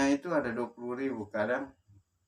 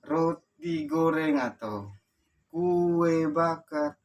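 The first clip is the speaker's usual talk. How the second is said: drawn-out, high, loud hawker's call; street vendor's cry; 7 semitones higher, 8 dB louder, much slower than usual. Retold or imitated. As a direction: sing out your wares, stretching each vowel. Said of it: "berteriak saja".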